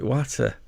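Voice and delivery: watter with a short flat a, like "matter"; Yorkshire pronunciation of watter. Shown as a demonstration. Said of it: "Up here, we call it watter".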